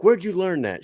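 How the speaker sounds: high shocked dad; mock outraged father. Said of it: "the dad's like".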